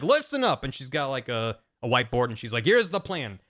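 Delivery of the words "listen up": commander order. Retold or imitated.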